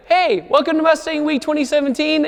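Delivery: high-pitched vlogger greeting; video intro. Retold or imitated. Host opening a Mustang Week video, hyped intro voice. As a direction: launch the show in a high, ringing host voice.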